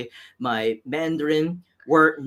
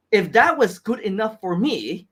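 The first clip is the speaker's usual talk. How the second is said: ordinary talk, nothing marked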